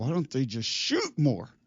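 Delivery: squeezed through gritted teeth, swinging pitch. Retelling a son's frustrated question during a losing game: imitating speaking through gritted teeth. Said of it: "gritting his teeth".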